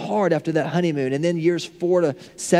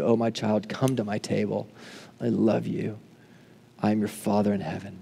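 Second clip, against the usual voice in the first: tender; 6 semitones lower, 6 dB quieter than usual. Acted. Voices God tenderly calling his child.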